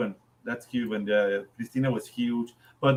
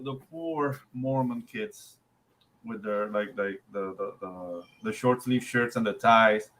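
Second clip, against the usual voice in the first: pitying; 4 semitones lower, 4 dB quieter than usual. Acted. Pitying the missionaries.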